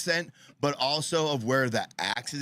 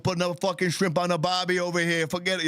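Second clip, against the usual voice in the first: mock Australian accent; 5 semitones higher, faster than usual. Mock Aussie hosts bickering.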